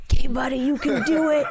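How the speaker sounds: loud, high, laughing encouragement; laughing coax. Retold or imitated. Dad urging his scared son to jump, laughing. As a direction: cheer the boy on through a laugh.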